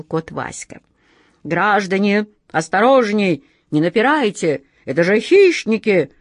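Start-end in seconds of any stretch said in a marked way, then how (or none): 1.4-6.1 громко, в отчаянии, выше; взвыть от отчаяния; отчаянный вопль. Acted. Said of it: "в отчаянии взвывал". (в отчаянии взвыть)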